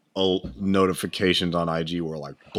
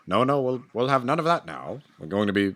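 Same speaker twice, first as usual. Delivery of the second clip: sixties household dad; 4 semitones higher than usual. Retold or imitated. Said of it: "that Midwestern kind of formulation".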